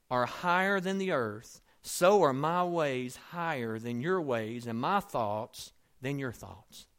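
slow, solemn reading of the verse; scripture reading. Acted. Preacher reading Isaiah to the congregation, slow and solemn. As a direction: lay out the verse deliberately, weighty.

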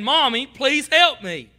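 put-on child's plea. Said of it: "In her cry, she was saying".

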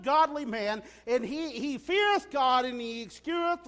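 a touch of teasing, knowing challenge; subtly pointed God. Pretend. God needling Satan about Job, lightly knowing. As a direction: lay the bait lightly, as if in passing. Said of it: "God so subtly says".

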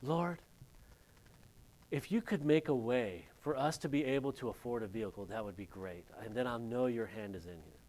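understated prayer, softening and dropping toward the end; re-enacted prayer with a pause after Lord; retold prayer. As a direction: quietly recount a personal plea to God. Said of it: "I remember I was praying".

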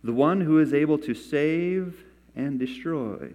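measured, emphatic Bible reading; scripture reading. Acted. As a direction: read the verse out deliberately, stretching key phrases. Reads scripture aloud.

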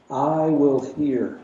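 'I will hear' very slow, 'will' hit hard; emphatic. Shown as a demonstration. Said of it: "This is emphatic".

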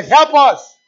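high loud plea to the Lord; crying out. Retold or imitated. A believer crying to the Lord for help, loud high plea. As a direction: cry it out, lifted and strong.

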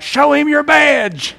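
high gleeful shout with a laugh; mocking yell. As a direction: holler it from the fence post laughing. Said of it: "yelled out".

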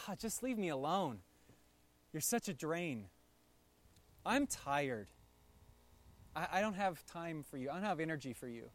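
tired, muttered refusal; weary dismissal. Retold or imitated. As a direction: push someone away from exhaustion. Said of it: "doesn't look at you and like".

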